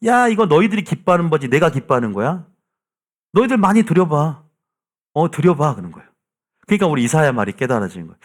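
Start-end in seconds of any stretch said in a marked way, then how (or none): 0.1-5.8 mocking, higher-pitched divine challenge; sarcastic. The Lord taunting the people over their offerings, sarcastically. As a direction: quote a scornful dare, pitch lifted at the start. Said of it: "그러면서 비꼬아요".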